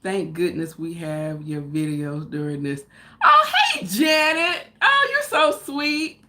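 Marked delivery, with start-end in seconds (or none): 3.2-6.2 delighted greeting. Real, not acted. Greeting viewer on livestream.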